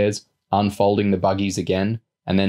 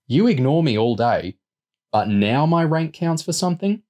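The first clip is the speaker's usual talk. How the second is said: aggrieved protest rising to a high question; indignant; 7 semitones higher than usual. A narrator's reading. Boy objecting to his rank suddenly counting, indignant. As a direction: object crossly, climbing in pitch at the end. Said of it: "he said angrily".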